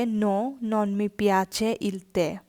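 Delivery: very slow, No, non mi piace il caffè with non leaned on; slow teaching read. Shown as a demonstration. Teacher reading the no answer very slowly for learners. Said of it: "এবং যদি হয় না".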